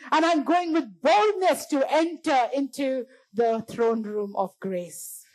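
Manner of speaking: slow, emphatic proclamation of faith; declamatory preaching. Real, not acted. Preacher declaring entry into God's presence, slow emphatic preaching. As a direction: declare it slowly, phrase by phrase.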